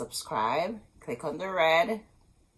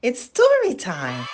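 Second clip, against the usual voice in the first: big cheerful call, louder and higher; excited shout; 4 semitones higher, 7 dB louder than usual. Acted. Storyteller calling out to children, excited. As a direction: announce it like a party. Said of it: "kids' show opener".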